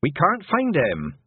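high, drawn-out anxious cry; panicky. A narrator's reading. Mother telling Tiffany the boy is lost, high panicky voice. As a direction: stretch it out slowly in rising panic. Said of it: "the panic pouring off her mother".

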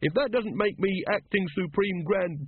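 slow, high, indignant pomp; haughty. A narrator's reading. Brother Watchtower insisting on his title, haughty and emphatic. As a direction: stretch the title out self-importantly. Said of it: "said Brother Watchtower haughtily".

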